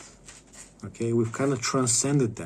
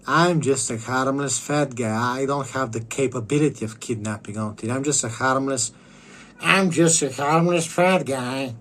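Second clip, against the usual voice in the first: harmless fat guy act; 4 dB louder than usual. Pretend. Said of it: "it's gonna be".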